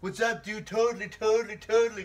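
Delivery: loud, high mocking surfer-dude voice; mocking imitation. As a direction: tease him loudly in a dude voice. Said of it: "were all just like".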